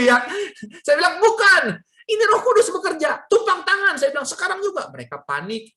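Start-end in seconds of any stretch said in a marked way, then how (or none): 1.2-3.9 loud, high-pitched retold command; raised voice of impatient conviction; urgent insistence. Insisting to doubting parents, urgent order. 4.3-4.9 high-pitched retold demand; insistent acted command; urgent order.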